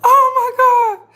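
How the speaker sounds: high, laughing through it; squealed through the giggles; real laughing exclamation. Real, not acted. Laughing fit returns.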